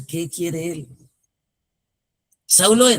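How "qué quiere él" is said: quiet pause. Real, not acted. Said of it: "Hagamos la pausa".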